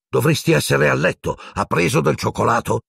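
anxious. A narrator's reading. Minister worrying over the patient to the nurse, anxious. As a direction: ask with a touch of worry. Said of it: "chiese con ansia a Madame Pomfrey".

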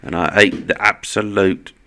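loud mock British accent; put-on British accent, boasting. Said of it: "it's my British accent".

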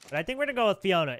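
excited announcement. Real, not acted. Announces chosen name, fast.

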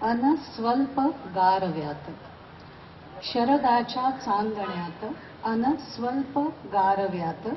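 measured Marathi verse, pausing after each phrase; emphatic openings, falling cadences; poem recitation. Acted. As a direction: recite your poem to an audience, lifting key words.

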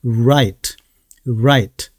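"right" with a w-like R, tongue touching nothing; slow, rounded-lip R opening "right"; R without ㄹ. Shown as a demonstration. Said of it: "리을은 절대 내서는".

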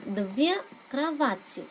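Две кровати said slowly again for repetition; teacher repeats Две кровати slowly; slow model phrase. Shown as a demonstration. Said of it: "cách hai số ít".

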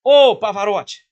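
loud, slow, jovial greeting; mock call-out. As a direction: hail him across the room, stretched and loud. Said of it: "ele virou e falou assim".

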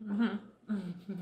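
humming through a full mouth; mm-hmm round a mouthful. Real, not acted. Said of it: "top of my mouth full".

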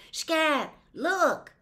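high, loud alarmed call; urgent call. A narrator's reading. Boy pointing out the burning house to his sister, alarmed. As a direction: grab her attention, alarmed.

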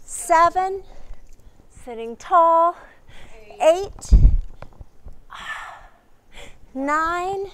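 loud, high count calls over the music; coach counting reps. Acted. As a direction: pump the class up with each number. Instructor counting exercise reps.

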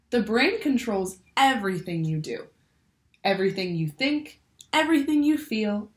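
bright, lively picture-book read-aloud; reading to children. A narrator's reading. Teacher reads a brain book to her class, lively storytelling. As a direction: read it like story time for little ones.

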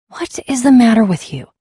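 loud, indignant outburst; angry rebuke. Acted. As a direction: scold them hard after a fight. Rebuking the attacker of friends.

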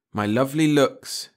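slow, understated bitter remark; dry self-mockery; some bitterness. A narrator's reading. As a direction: mutter it with a touch of bitterness. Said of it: "he said with some bitterness".

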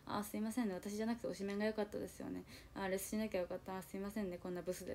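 小声で投げやりな謝罪; すねて卑屈につぶやく; いじけた自嘲. Retold or imitated. 卑屈な自嘲の心の声. (小声でいじける)

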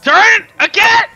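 drawn-out high shout; loud yell. Real, not acted. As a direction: yell it slowly at a friend. Yelling at teammate.

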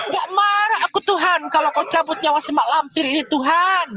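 hammed-up pleading prayer to God; mock fervent curse-prayer. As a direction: pray dramatically for her ruin. Mock prayer cursing rival.

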